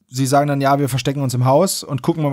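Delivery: usual speaking voice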